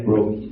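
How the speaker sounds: Brahma said as 'Broh-mi'; loud Khmer-style 'Broh' in Brahma; Cambodian pronunciation. Shown as a demonstration. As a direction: round the first vowel of Brahma to 'oh'. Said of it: "In Cambodia".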